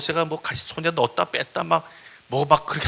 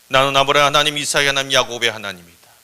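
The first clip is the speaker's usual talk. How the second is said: loud, level, sustained declaration; solemn God voice; 2 semitones lower, 7 dB louder than usual. Acted. God revealing himself to Moses, solemn proclamation. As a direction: proclaim it like a deity.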